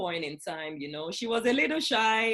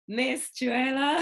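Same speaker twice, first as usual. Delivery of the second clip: raised, louder announcing of the guest's name; excited introduction; 7 semitones higher, 6 dB louder than usual. Real, not acted. Host introducing the guest to the audience, bright and loud. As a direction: present her name with a lift, like a big reveal.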